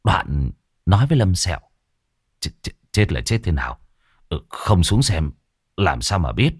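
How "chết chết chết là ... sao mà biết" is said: lower, lightly voiced older man; a hint of a shaken boss, pitched down; flustered master.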